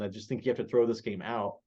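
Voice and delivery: usual speaking voice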